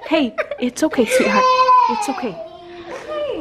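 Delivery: soothing, coaxing comfort; calm them down gently; soothing a scared dog. Real, not acted. Comforting crying child.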